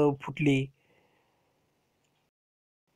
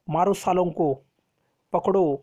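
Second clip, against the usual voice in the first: mildly raised voice imitating a commander's orders; mock shout of attack, held back; retold battle shout; 2 semitones higher than usual. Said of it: "असं मोठमोठ्याने आवाज करत होते". (सेनापतीच्या आरोळीची सौम्य नक्कल)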